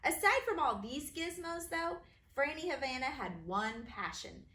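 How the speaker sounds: bouncy, sing-song rhyme reading; rhyming read-aloud. A narrator's reading. Author reading her rhyming book to kids, bouncy.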